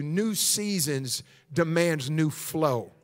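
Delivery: low, slow and measured; solemn pronouncement. Retold or imitated. Preacher gives the church God's word, slow low pronouncement. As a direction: spell out the message word by word, unhurried.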